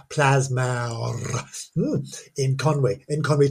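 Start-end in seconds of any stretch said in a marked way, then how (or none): 0.1-1.7 Plasmawr drawn out slowly in Welsh, plas-MAOWR; Welsh pronunciation. Shown as a demonstration. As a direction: linger on Plasmawr with Welsh vowels. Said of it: "Did you like the accent there?".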